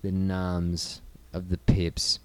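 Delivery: unvoiced whisper aside. Real, not acted. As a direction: whisper it under your breath.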